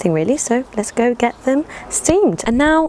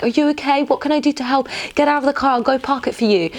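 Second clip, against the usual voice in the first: lightly higher concerned passer-by; helpful strangers; 6 semitones higher, faster than usual. Retold or imitated. Strangers helping after the crash, mildly concerned. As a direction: offer help like a kind stranger. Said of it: "been like".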